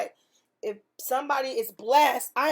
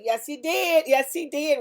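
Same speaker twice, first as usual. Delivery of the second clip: excited affirmation; 3 semitones higher, 4 dB louder than usual. Retold or imitated. Affirming answered prayer.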